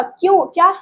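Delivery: just woken, asking in surprise; surprised question. A narrator's reading. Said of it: "हल्कू ने उठकर कहा".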